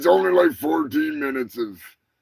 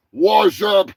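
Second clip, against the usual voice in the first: slow shout; 6 dB louder, much slower than usual. Acted. Shouted end of sign-off.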